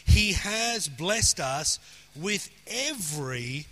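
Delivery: slow delivery with weight on "has" and "every"; deliberate, spaced-out emphasis on "has"; stress on has. Shown as a demonstration. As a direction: hammer "has" as past tense, stretch "every". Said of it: "Notice it's past tense".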